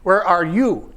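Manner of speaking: "Where are you" pointed at one person on YOU; stress on YOU. Shown as a demonstration. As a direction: make "you" the personal word, falling after it. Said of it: "all those different intonations".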